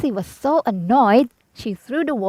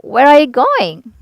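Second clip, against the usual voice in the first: Scarecrow calling; 4 semitones higher, 7 dB louder than usual. A narrator's reading. Scarecrow calls to Dorothy.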